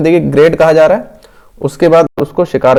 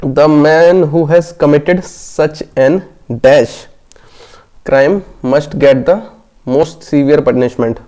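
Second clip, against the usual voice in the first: slow, deliberate reading of the quiz text; slow question reading; much slower than usual. Acted. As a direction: read each word out slowly for the class. Reads the question text aloud.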